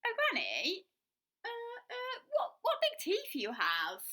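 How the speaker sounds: high, slow stammering fear; frightened stammer. Acted. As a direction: dread rising. Girl frightened.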